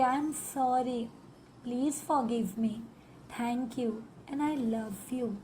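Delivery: very slow, gentle heartfelt mantra; from the heart. Shown as a demonstration. Hand on the pain, asking the body for forgiveness, slow and tender. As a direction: linger softly on every word. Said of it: "दिल से कहेंगे".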